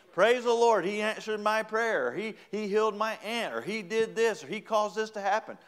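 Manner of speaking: high, ringing church testimony; excited testifying. Acted. Believer telling everybody of answered prayer, excited testifying.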